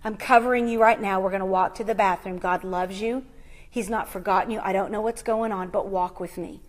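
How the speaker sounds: calm a frightened woman close to her ear; retold whisper. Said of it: "whispered in her ear".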